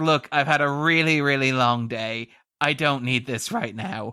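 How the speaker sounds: dry, flat, deadpan sarcasm, acted. Imitating Mulder after praising his deadpan: Mulder's deadpan snark. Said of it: "gives Duchovny this kind of deadpan snark where it's like".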